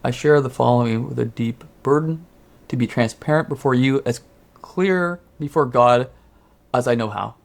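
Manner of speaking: earnest, measured letter reading with deliberate pauses; Philip Real. Acted. Co-host reading the apology letter as its writer, nice solemn voice. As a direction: solemnly read a confession in a slightly put-on voice. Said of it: "the way I feel Philip Real would sound like".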